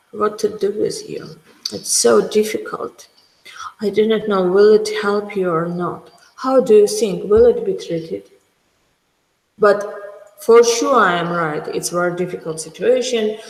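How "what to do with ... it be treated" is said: mildly doubtful, half-whispered in places; hopeless doubtful doctor. Shown as a demonstration. Doctor unsure in front of patient, a mild doubtful tone. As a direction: sound unsure of the treatment. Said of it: "If I will say to a patient".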